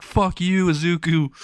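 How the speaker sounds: lightly acted angry comeback; irritated retort. A narrator's reading. Swimming chef curses back at taunt.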